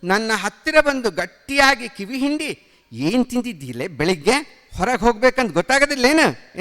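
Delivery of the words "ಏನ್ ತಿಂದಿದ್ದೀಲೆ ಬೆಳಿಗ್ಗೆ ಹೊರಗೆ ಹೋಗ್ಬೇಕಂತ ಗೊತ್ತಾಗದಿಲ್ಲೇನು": fast, rebuking teacher's voice; scolding. Acted. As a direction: tell the boy off quickly. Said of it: "ಎಂದು ಗದರಿದರು".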